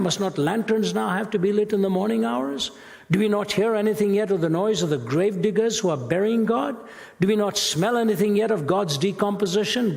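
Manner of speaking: a hint of a frantic madman in the square; madman's questions. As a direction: ask each question as a man losing his grip. Voicing Nietzsche's madman, rising questions.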